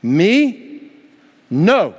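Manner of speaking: high incredulous You, Me, No. Acted. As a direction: sound shocked at the idea. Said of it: "Peter said".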